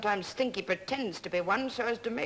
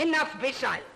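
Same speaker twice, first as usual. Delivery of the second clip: stern command; 5 semitones higher, 4 dB louder than usual. Acted. Grandmother cuts off quarrel.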